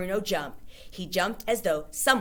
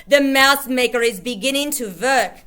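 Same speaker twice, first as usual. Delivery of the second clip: gloating witch; 6 semitones higher, 10 dB louder than usual. A narrator's reading.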